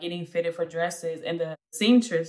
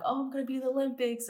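quick, high-pitched mock daydream; excited young dreamer; 7 semitones higher, 3 dB quieter, much faster than usual. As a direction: lightly imitate a starry-eyed hopeful, rushing it. Retelling her childhood dreams.

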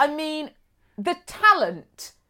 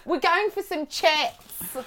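slow imitation Aussie, "chats" as "chets"; mock Australian accent; 4 semitones higher, slower than usual. Co-host playfully copying the reader, mock Australian accent. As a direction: copy an Australian saying it, slowly. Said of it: "a really difficult word to say in Australian".

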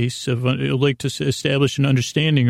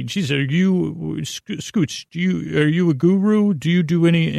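hesitant, higher-pitched mock questioner; imitated baffled listener; 4 semitones higher than usual. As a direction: imitate someone puzzled, groping for the question. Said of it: "or like people say".

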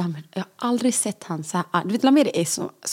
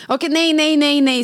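higher, insistent string of no's; astonished protest; 5 semitones higher than usual. Real, not acted. Mother hearing another ward's routine, astonished protest. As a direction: protest in real disbelief.

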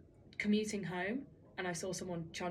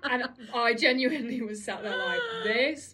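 laughing through words; 2 semitones higher, 6 dB louder than usual. Real, not acted. Laughs while telling.

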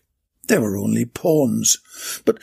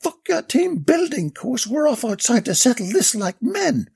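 defiant shout; 9 semitones higher than usual. A narrator's reading. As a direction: spit out the challenge to fight outside. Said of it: "shouted Des".

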